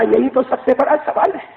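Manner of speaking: father crying over who will care for his son; weeping father. Acted. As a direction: plead through sobs. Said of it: "ابا نے روتے روتے کہا".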